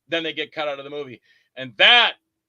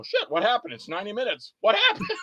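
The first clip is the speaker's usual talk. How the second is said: mock panic; 4 semitones higher than usual. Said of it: "you go".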